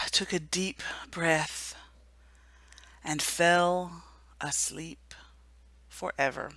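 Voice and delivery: slow, breathy whisper as Fox dies; hushed whisper. A narrator's reading. Narrator telling children Fox falls asleep forever, whispered. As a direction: let each word fade to a whisper.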